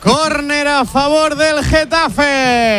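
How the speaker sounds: very slow, stretched corner call; commentator's call. Real, not acted. Commentator announcing Getafe's corner to listeners, drawn-out call. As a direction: draw out every word to the team name.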